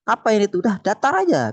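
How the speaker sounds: mock scolding sheikh; imitating the teacher's sharp correction. Sheikh scolding student for overdone recitation, mock scold. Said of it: "disalahkan dengan Mas Syekh".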